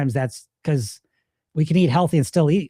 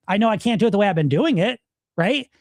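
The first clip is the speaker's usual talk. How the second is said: quick, higher-pitched rebuttal; fast sarcastic self-defence; sarcastic comeback; 4 semitones higher than usual. Acted. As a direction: argue back briskly at your inner critic. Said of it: "turn into a sarcastic good voice".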